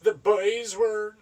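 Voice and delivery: hammed-up posh British narrator; mock snobby British storyteller; British accent. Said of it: "shitty British accent thing".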